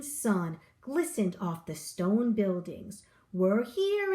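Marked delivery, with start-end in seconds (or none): 3.3-4.1 a high, called-out arrival; announced. A narrator's reading. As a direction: call out the arrival to the passengers. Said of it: "announced the driver".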